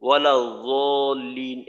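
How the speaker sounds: slow, drawn-out ওয়ালা জলিন with z; wrong z for dad. Shown as a demonstration. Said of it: "দদকে কখনো জদ বলে না". (জলিন-এ দদের জায়গায় জ, টেনে)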